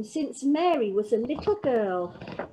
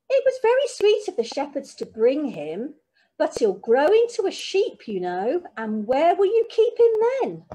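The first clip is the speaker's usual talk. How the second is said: chiding granny, louder and higher in places; fussing granny; 3 semitones higher, 3 dB louder than usual. Acted. Granny telling Mary the lamb must go, chiding. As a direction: gently lay down the law.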